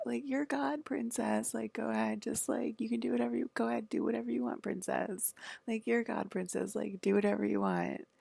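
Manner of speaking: airy, dismissive mimicry; mock indulgence. Mocking what others tell her.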